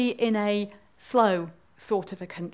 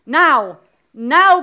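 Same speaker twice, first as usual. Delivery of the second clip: loud cries, rising higher; crying out; 4 semitones higher, 12 dB louder than usual. Acted. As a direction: build two urgent shouts, the second higher. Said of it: "cried the Queen".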